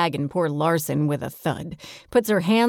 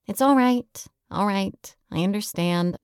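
gentle reassurance, softening as it goes; soothing; 2 semitones higher than usual. Acted. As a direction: comfort someone who is crying. Comforts sobbing friend in embrace.

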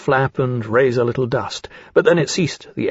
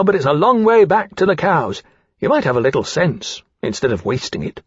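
fast, higher, swooping complaint; indignant young dragon; 5 semitones higher than usual. Acted. Dragon Caesar objects to wasting food on the hatchling, indignant. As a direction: rattle it off with pert grumbling.

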